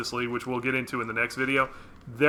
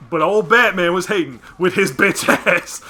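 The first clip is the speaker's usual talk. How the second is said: put-on loud old man voice; grumpy old granddad voice; Granddad Freeman voice; 6 semitones higher, 7 dB louder than usual. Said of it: "in the words of Granddad Freeman".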